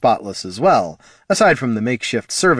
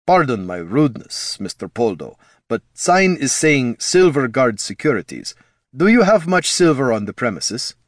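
put-on huge man's thick Ruskin-accented growl; 3 semitones higher than usual. Voices Stern with Ruskin accent.

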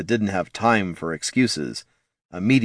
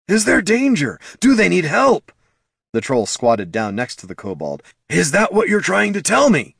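high, loud, pressing questions; a worried troll demanding answers; urgent troll; 9 semitones higher, 4 dB louder than usual. Acted. Troll urging the kobold to tell him what's wrong.

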